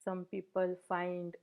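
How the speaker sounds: even, unhurried meditation guidance with long pauses; guided meditation. Real, not acted. Meditation teacher settling the group into posture and breath, guided meditation. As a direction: gently guide listeners through settling the body, leaving space between phrases.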